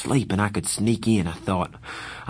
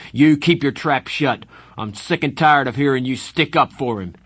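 louder, higher yell; yelling at Soda; 5 semitones higher, 5 dB louder than usual. Acted. Darry turning on Soda, yelling. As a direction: snap at the brother. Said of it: "He should never yell at Soda".

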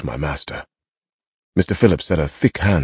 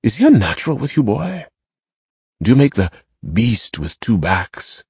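called out; 5 semitones higher than usual. A narrator's reading. Master calling a lewd taunt over to the boy. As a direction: fling the crude question across at the boy. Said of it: "looked over at me and called".

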